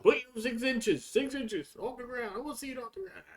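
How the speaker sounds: mock coach yelling six inches at the players; barking coach. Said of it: "He was like".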